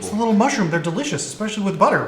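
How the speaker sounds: quick, chattering goblin voice. Acted. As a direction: goblin rattling on, puzzled. Goblin explains mushroom.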